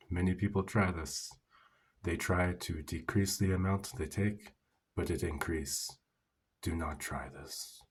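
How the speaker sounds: slow down and sink into a solemn caution; serious, concerned warning. Retold or imitated. Store owner warning a customer off the product, gravely serious. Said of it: "looked at me so seriously and so concerned".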